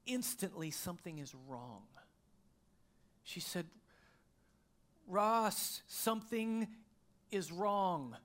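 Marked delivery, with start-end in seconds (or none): 0.7-1.8 soft, low, quietly worried; wife's worried voice. Retold or imitated. Wife telling her husband something is wrong, hushed. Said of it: "in a voice that I recognized". 5.1-8.2 higher, louder and urgent; alarmed wife. Retold or imitated. Wife calling to her husband from the bathroom, alarmed. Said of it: "She kinda said it like that".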